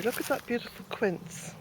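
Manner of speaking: breathless after the excitement; out of breath. Real, not acted. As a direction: talk while catching your breath. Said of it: "I feel quite out of breath".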